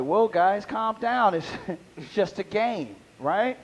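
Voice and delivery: put-on soft placating to angry kids; calm them down gently; soothing. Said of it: "I was like".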